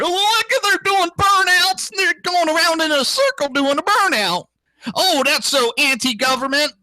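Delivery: high-pitched mock Southern hick; hammed-up Southern hick holler. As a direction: gawk like an excited Southern yokel, high and sustained. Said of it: "with a Southern, uh, hick voice".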